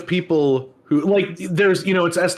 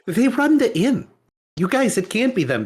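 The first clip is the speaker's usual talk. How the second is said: mock indignant defense; 6 semitones higher than usual. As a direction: pitch it up and drag it out in outrage. Mocking townsfolk defending the innkeepers.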